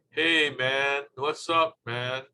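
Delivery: drawn-out mock hippie talk; stoned hippie. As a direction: stretch it like a laid-back, stoned hippie. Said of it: "slowed down because they're, they're stoned".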